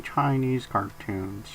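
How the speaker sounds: slow, flat monotone. Pretend. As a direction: drag out Chinese cartoons in monotone. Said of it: "bringing the monotone on".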